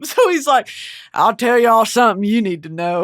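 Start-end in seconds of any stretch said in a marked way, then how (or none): 1.1-3.0 mock Arkansas accent, chuckling through it; Southern accent. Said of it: "Billy Bob Thornton voicing him".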